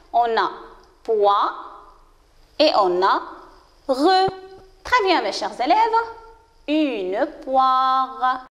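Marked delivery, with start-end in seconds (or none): 1.0-1.9 "poire" cut to "poi", standing alone; isolated syllable. Shown as a demonstration. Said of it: "Combien de syllabes dans ce mot?". 3.9-4.3 "re" sounded alone after a pause; isolated syllable. Shown as a demonstration. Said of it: "Combien de syllabes dans ce mot?". 6.7-8.5 "Une poire" drawn out with every sound heard; slow word model. Shown as a demonstration. Teacher models the whole word.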